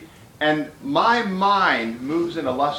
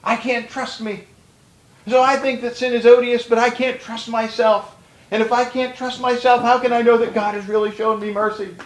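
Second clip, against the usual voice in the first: higher, louder, mock-anguished self-doubt; anxious doubter voiced; 6 semitones higher, 3 dB louder than usual. Preacher voicing a doubting believer's heart, mock anguish, higher. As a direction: play the tortured soul who can't trust himself, half laughing. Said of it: "that's the way Puritanism gone awry works".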